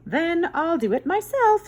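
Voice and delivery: high, loud determined hen; plucky little hen; resigned hen. Acted. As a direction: say it like a hen who gives up asking. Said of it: "said the good little red hen".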